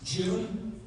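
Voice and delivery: put-on a parent disowning a child's misbehavior, with a laugh; exasperated parent. Parent scolds spouse about "your daughter", laughing. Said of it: "Did you ever do that".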